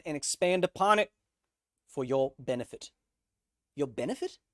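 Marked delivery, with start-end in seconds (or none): 3.8-4.4 light New Zealand accent, rising question. Shown as a demonstration. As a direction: echo it in a Kiwi accent. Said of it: "Ooh, that's a New Zealand accent".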